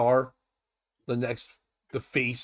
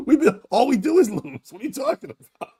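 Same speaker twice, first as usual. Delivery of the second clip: imitating Cat; 9 semitones higher than usual. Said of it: "He's like".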